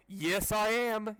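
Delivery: slow, loud defiant reply. Acted. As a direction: drag it out defiantly. Siblings fighting.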